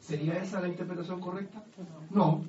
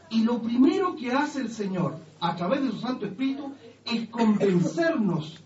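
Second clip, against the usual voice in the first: full-force preaching; 4 semitones higher, 5 dB louder than usual. Acted. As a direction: proclaim it, word by word. Preaching climax.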